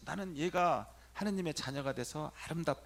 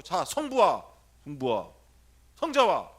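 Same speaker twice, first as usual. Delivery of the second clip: loud prompting; 2 semitones higher, 12 dB louder, slower than usual. Shown as a demonstration. Priest drilling the prayer loudly for the youth. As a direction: drill each word out loud. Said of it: "손만 하지 말고".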